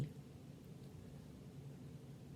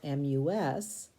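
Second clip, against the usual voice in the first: slow letter spelling. Shown as a demonstration.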